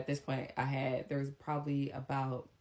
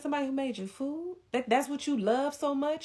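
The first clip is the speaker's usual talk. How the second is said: incredulous mom; 11 semitones higher, 4 dB louder than usual. Retold or imitated.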